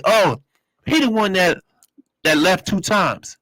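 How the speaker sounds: mock the staff who heard the story; gossiping staff member. Staff telling the caller about him, lightly mocking. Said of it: "They like".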